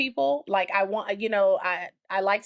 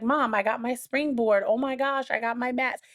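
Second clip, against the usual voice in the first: higher-pitched imitation of a thrilled daughter; a touch of gushing excitement; excited child, retold; 5 semitones higher than usual. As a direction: quote the kid's delight, lightly acted. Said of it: "she was really excited".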